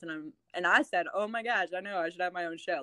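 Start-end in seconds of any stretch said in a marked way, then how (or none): 1.1-2.8 lightly sarcastic, self-mocking. Joking back to the producer, mildly sarcastic. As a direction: tease yourself with a dry, mild sarcasm. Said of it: "Like, kinda sarcastically".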